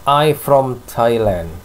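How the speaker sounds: the common mistake, dropping the "am": "I from Thailand"; wrong answer. Shown as a demonstration. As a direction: say "I from Thailand" the way learners wrongly do, slowly. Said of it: "Karena sering orang menjawab". (contoh jawaban salah "I from Thailand", diucapkan pelan)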